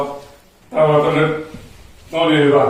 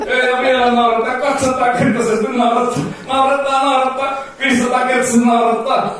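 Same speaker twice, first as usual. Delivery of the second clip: much higher, laughing, building hype; giddy hype; 8 semitones higher than usual. Acted. Hypnotist making volunteers laugh harder and harder, giddy high-pitched hype. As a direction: crank the giggles ever higher.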